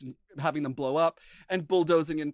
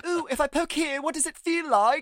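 mock doctor voice; 11 semitones higher, 4 dB louder than usual. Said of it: "and he's like".

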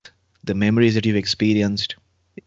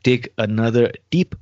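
calm meditative tone. Acted. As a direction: ease the listener into calm. Leads a guided healing meditation.

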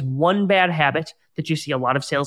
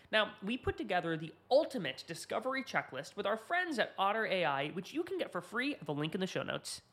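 much softer, lilting podcast ad read; sponsor ad read; 3 semitones higher, 15 dB quieter than usual. Acted. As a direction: read the sponsor message softly with swinging pitch. Host reads sponsor ad.

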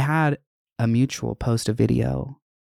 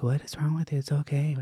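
softly voiced concerned friend; hushed retold reassurance; 3 semitones higher, 6 dB quieter than usual. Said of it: "my friend was like".

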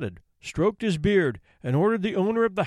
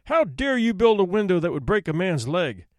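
thundering judge; 2 semitones higher, 3 dB louder than usual. Acted. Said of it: "the judge thundered".

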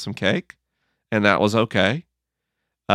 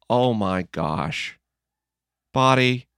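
kind words to body. Retold or imitated. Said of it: "what I've learned to do is go".

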